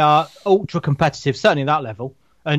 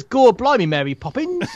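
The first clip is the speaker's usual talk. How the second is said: put-on Cockney accent; 6 semitones higher, slower than usual. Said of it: "The only thing you were missing was".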